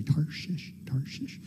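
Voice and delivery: quietly trying out TARSHISH; careful pronunciation. Real, not acted. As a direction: practise saying TARSHISH softly, as if to yourself. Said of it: "It's hard to say".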